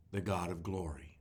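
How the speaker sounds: slow, weighty Bible reading; scripture reading. Acted. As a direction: read the psalm slowly with reverence. Pastor reads Psalm aloud.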